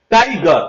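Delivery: টাইগার divided into টাই and গার; split into syllables. Shown as a demonstration. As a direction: say টাইগার as two beats, টাই then গার. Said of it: "টাই একটা শব্দ হলো". (টাইগার দুই ভাগে আলাদা করে: টাই, গার)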